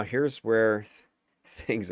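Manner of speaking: breaking into a laugh mid-word. Real, not acted. Commentator losing it over the gameplay, laughing. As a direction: try to say it and crack up laughing. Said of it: "'cause I'm, like, laughing".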